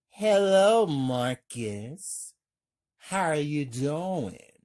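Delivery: a sly, evil hello, opening high and loud; evil woman's voice. Acted. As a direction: tease him down the line with menace. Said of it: "talking to Marcus in an evil way".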